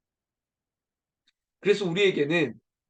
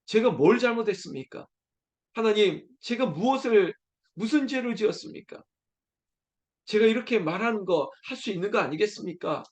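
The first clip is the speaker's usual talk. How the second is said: lightly voiced Job, a bit higher, pressing his complaint; a hint of an aggrieved Job arguing his case; Job pleading with God; 5 semitones higher than usual. Preacher voicing Job arguing with God, a mild plea. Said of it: "욥이 지금 하나님 앞에 마치".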